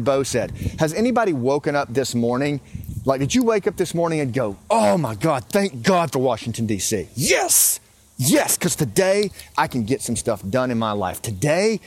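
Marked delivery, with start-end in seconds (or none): 4.7-11.8 sarcastic mock praise. Mocking people who thank Washington, sarcastic gush. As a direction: fake gratitude, tongue in cheek. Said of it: "I can't even keep a straight face with that".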